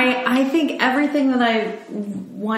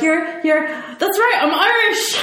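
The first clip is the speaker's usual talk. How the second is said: laughing, much higher quote of the funny line; quoting the movie character; 8 semitones higher, slower than usual. Retold or imitated. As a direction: giggle through it, voice pitched well up. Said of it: "When they're like".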